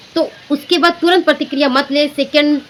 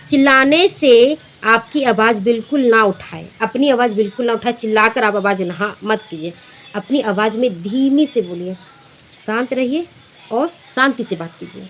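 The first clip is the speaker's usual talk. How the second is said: calm soothing reply. Shown as a demonstration. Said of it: "बस इतना जवाब दीजिएगा".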